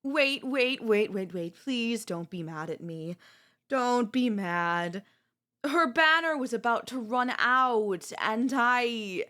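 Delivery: panicky, emphatic begging; frantic pleading. Acted. Spoiled queen begging partner not to be mad, frantic pleading.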